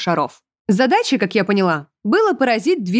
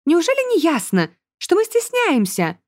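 embarrassed; 10 semitones higher than usual. A narrator's reading. Bella embarrassed.

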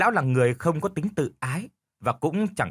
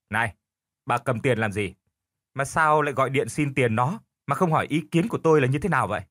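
lightly voiced husband, prodding. Husband confronts wife.

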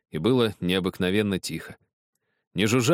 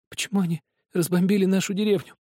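put-on quietly asking boy; 12 semitones higher than usual. A narrator's reading. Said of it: "тихо спросил Захар".

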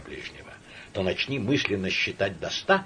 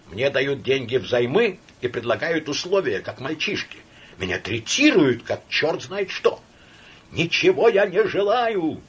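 high, loud, shaking with agitation; shouted; 7 semitones higher, 6 dB louder than usual. Acted. Laevsky shouting at Samoylenko, agitated. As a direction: yell it, staggering with emotion. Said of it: "крикнул Лаевский".

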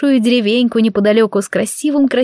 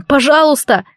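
desperate plea; 5 semitones higher than usual. A narrator's reading. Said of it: "отчаяние в голосе".

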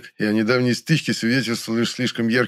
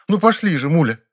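imperious grande dame; 8 semitones higher, 4 dB louder than usual. A narrator's reading. Actress urging impatiently.

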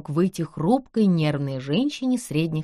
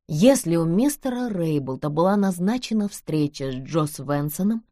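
plain reading voice

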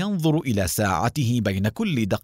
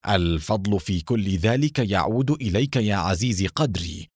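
calm; 2 semitones lower than usual. Acted. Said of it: "ابتسم أدهم بهدوء".

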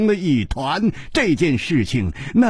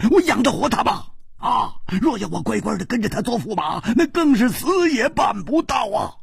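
sweating panic; 4 semitones higher than usual. Acted. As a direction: plead in mounting distress. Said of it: "蝴蝶花满头大汗". (满头大汗，越说越急，带着哭腔)

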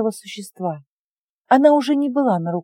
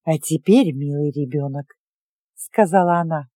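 sinister witch; 5 semitones lower than usual. Acted. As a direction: smile darkly, coaxing the child. Witch turns to girl, grinning.

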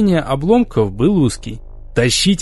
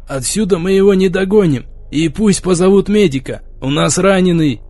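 shouted soldier report; 3 semitones higher than usual. Acted. Soldier reporting after firefight.

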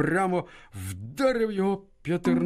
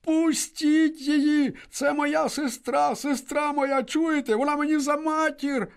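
put-on boy shouting; 13 semitones higher, slower than usual. A narrator's reading. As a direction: scream for his sister's release. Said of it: "закричав Климко".

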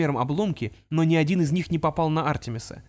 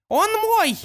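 reverent cry; 5 dB louder than usual. Acted. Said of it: "полным благоговения голосом".

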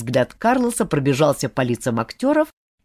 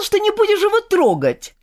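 high, pleading reproach; upset girl scolding a friend; scolding young woman; 12 semitones higher than usual. A narrator's reading. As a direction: remind him of his broken promise. Olga scolds Diego.

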